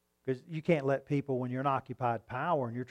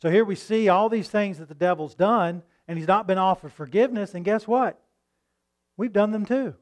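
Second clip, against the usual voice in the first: rising preaching fervor; 5 semitones higher, 5 dB louder than usual. Real, not acted. Preacher builds to emphatic point.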